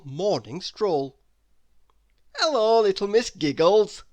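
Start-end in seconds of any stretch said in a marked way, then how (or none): 2.4-4.0 loud, higher, cheery greeting; jolly Mister Happy. Acted. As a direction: boom a happy hello. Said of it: "he laughed".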